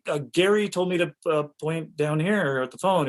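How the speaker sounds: mildly flustered self-defence; a little flustered. Retold or imitated. Actor explaining himself to the AD, a little flustered. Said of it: "So I got a little flustered".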